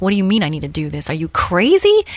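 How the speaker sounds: retelling her disbelief at the bride's dare; incredulous. Retold or imitated. Susie balking at the bride's paragliding dare, incredulous.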